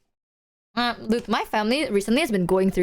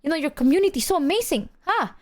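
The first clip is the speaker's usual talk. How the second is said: gushing mom impression; 5 semitones higher than usual. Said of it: "she went like".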